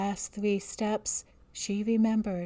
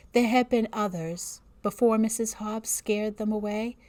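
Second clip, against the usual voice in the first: story narration. A narrator's reading.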